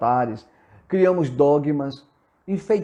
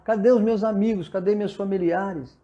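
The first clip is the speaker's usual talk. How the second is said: mild mock cry, pitched higher; imitating a desperate call, raised pitch; retold crying out; 4 semitones higher than usual. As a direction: call out for missing loved ones, half-shouted. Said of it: "Vai gritar".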